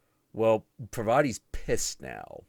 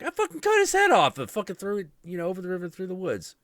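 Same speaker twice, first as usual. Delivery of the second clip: loud casual confession; 11 semitones higher, 7 dB louder, faster than usual. Retold or imitated. Shiva answering.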